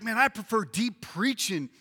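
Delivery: lightly acted keen church member; emphatic preference. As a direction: declare the preference firmly, in full voice. First of two opposed preferences.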